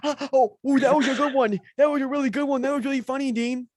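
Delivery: high-pitched breathless laughter; gasping laugh that sounds like crying; laughing fit. Real, not acted. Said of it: "I thought he was actually crying".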